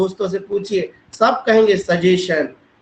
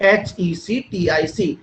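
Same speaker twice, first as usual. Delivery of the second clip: letters spelled out slowly; slow letter-by-letter spelling; slower than usual. Shown as a demonstration. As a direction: spell each letter clearly for the class. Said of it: "हेक्टिक शब्द मतलब होता है".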